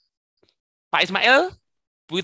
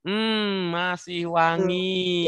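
long, stretched group-chant response; very slow, sing-out call; drawn-out cheer; 3 semitones higher, much slower than usual. Real, not acted. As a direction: hum into it, then hold each word out slowly.

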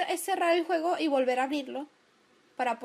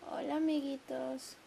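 calling friends; 5 dB quieter, slower than usual. Pretend.

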